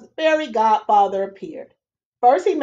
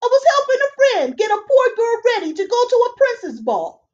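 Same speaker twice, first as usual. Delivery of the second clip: high, chirpy little fairy man; high, louder fussy fairy voice; fairy godfather; 7 semitones higher, 4 dB louder than usual. Acted. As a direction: squeak it out like a tiny busy fairy.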